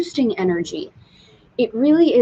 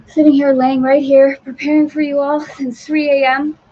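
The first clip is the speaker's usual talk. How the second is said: emphatic; 6 semitones higher, 8 dB louder than usual. Retold or imitated. Describing the stormy night.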